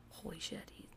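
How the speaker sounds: hushed near-silent whisper to herself; inner thought whisper. Retold or imitated. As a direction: breathe it out as a private thought. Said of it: "And I'm thinking that to myself".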